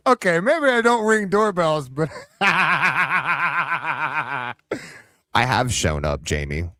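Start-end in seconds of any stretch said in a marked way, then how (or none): 0.1-4.5 high laughing confession. Real, not acted. Streamer admitting with a laugh that he doesn't ring doorbells. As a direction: laugh through the words.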